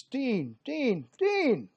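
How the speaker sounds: high, loud cries rising to a yell; urgent call under fire. Acted. Soldiers yelling for Gunga Din as bullets fly, urgent and loud. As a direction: yell his name over the gunfire.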